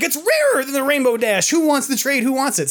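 mock auctioneer pitch. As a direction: tout it like a market seller. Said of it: "I'm like".

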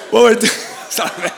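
words broken up by real laughter; laughing through words. Real, not acted. Pastor apologising while still laughing. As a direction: try to talk but keep laughing.

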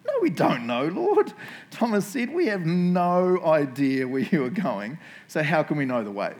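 high, loud comic protest; hammed-up baffled disciple, dragging out the complaint; Thomas. Preacher acting a disciple answering Jesus, comically exasperated. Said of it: "Thomas, who's just always hilarious, goes".

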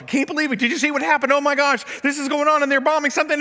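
high, loud retold panic; frantic caller yelling down the phone; mock frantic shout. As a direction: play the screaming hotel caller, frantic. Screaming lady on phone, retold.

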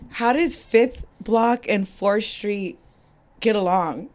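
slow, puzzled question; retold confusion. Newcomer asking about rival streets, confused. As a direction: puzzle it out piece by piece. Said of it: "I was so confused".

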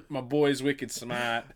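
drawn-out mock Boston accent; jokey Boston accent, stretching the words. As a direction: play a slow Bostonian with a laugh. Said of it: "does not have Boston accents".

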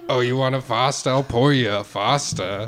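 badly faked Australian accent. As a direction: offer it in a muddled Australian accent. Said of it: "maybe Australian".

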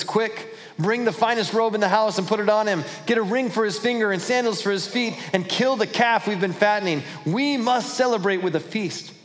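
father calling out to servants for a feast; eager, excited orders; joyful father's orders. Retold or imitated. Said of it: "His father said to the servants".

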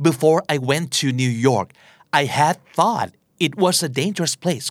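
very slow, careful English sentence with "had thought"; slow model sentence with had; slow example with had. Shown as a demonstration. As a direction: read it word by word. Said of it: "ในตัวอย่างนี้คือ".

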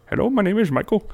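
put-on friendly phone salesman, no accent; polite call-center greeting; plain telemarketer voice. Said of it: "he doesn't sound Indian at all".

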